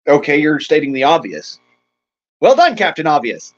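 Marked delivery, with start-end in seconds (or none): 2.4-3.5 sarcastic. Shown as a demonstration. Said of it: "That's sarcasm".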